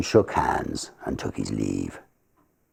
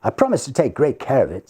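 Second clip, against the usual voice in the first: grateful; 11 semitones higher, 4 dB louder, faster than usual. Acted. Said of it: "said Johnson gratefully".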